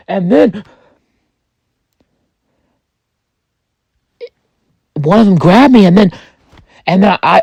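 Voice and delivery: rising panic. Acted. Survivor recounting being grabbed by zombies, increasingly panicked. Retelling a frightening zombie attack.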